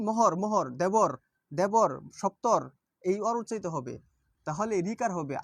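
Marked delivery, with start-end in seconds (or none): 0.1-2.6 মহর and দেবর said with a clear ওর ending, drawn out; মহর, দেবর, সপ্তর stretched slowly, ending on a strong ওর; stressed ওর sound. Shown as a demonstration. (ওর ধ্বনি স্পষ্ট করে টেনে বলা)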